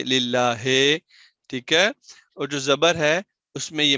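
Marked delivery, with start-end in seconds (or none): 0.0-0.5 للہ ending in a vague e, lillahe; majhool mispronunciation. Shown as a demonstration. Teacher showing how people misread, majhool e on للہ. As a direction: end للہ on e in place of i. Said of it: "لوگ پڑھیں گے".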